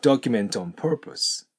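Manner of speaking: "Document on purpose" slow, T dropped after N; linked slowly. Shown as a demonstration. Teacher slowly models dropped T. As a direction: drop the T, link on. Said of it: "トーンとなります".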